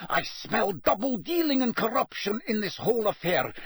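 put-on high-pitched, accented tirade; bellowed rage. A narrator's reading. Karkaroff raging at Dumbledore over a plot, bellowing. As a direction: rant in outrage, pitched far up. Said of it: "he bellowed".

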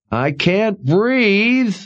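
high, very slow, struggling for air; muffled, gasping plea. A narrator's reading. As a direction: choke out the words, trapped. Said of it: "came a muffled voice from under the rock".

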